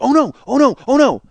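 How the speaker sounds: high, loud repeated alarm; acted panic. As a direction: mimic a kid in a flap. Retelling brother's panicked cries.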